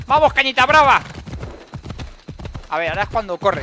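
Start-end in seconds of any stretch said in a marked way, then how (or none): 0.1-1.0 loud rallying cry, higher and louder; yelling giddy-up encouragement; cheering the horse on. Real, not acted. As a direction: spur the horse on with a shout. Urging her horse Fobos on.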